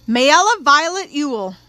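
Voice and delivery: booming, drawn-out name call. A narrator's reading. Court official calling a witness to the stand, booming. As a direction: call it out loud, high and slow. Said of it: "someone was booming again".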